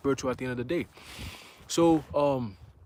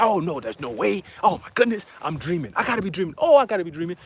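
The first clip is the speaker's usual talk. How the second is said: incredulous, with raised bursts; bugging out; 3 semitones higher, 4 dB louder than usual. Retold or imitated. Mom pacing the living room after news, incredulous. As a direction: imitate mom reeling in disbelief. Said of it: "She's bugging the fuck out".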